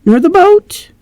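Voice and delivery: put-on high English-accented anxious question; old servant pleading in English accent. Servant asks her master anxiously, English accent. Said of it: "giving her an English accent".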